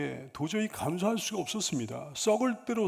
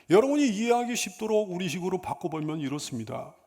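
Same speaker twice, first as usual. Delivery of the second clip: ordinary talk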